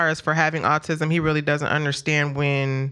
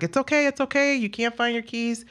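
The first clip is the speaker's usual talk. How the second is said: reassuring mom voice, pitched up; calming a child. Retold or imitated. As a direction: soothe a panicking kid. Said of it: "a talking to, to try to calm him down".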